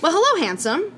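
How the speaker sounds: a touch younger and brighter, lightly played. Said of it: "we're gonna use, like, a younger voice".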